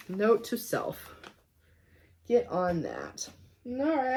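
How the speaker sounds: ordinary talk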